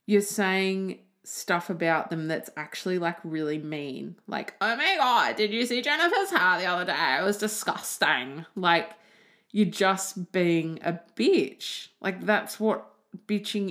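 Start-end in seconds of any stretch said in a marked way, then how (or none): 4.6-8.5 mock gossip. Mocking someone bitching about Jennifer.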